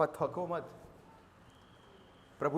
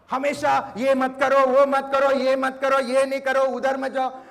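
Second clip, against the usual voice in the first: louder scolding list of don'ts; a hammed-up nagging parent; mock nagging; 3 semitones higher, 7 dB louder than usual. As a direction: rattle off the parents' rules. Young man imitating parents' nagging.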